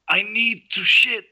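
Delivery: high, loud, slow desperate plea; captive's plea. Retold or imitated. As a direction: drag it out like a desperate prisoner. Captive voicing his plea.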